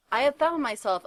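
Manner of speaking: put-on defiant yell at the old man. A narrator's reading. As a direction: snap it back at the old man. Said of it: "Hagrid yelled".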